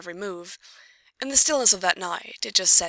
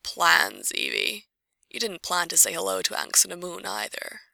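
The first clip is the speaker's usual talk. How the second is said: hoarse whisper. Acted. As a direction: rasp it out under the breath. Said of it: "answered in a hoarse whisper".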